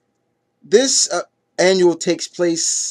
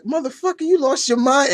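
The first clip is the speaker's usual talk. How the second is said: high strained mock-angry curse, pitched way up; imitating furious Tarzan; 10 semitones higher than usual. Reviewer voices Tarzan losing his temper at the German fighter, high mock fury. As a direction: voice Tarzan snapping mid-fight. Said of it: "And you just see the anger".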